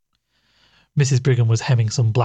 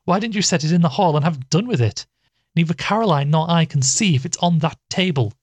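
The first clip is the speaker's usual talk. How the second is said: higher, exasperated complaint; impatient; 6 semitones higher than usual. Acted. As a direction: scold her sister impatiently. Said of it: "with more of impatience than her voice usually revealed".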